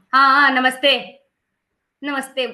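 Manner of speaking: loud, drawn-out, taunting sarcastic tone. Recounting how they replied to someone who was angry with them, in a sarcastic, taunting tone put on. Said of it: "मेरी tone जो थी एकदम sarcastic थी".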